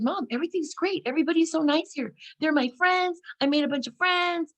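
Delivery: high, upbeat gushing to mom; gushing reassurance. Retold or imitated. Telling mom on the phone everything's great, high-pitched gushing. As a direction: gush that all is wonderful, pitched high.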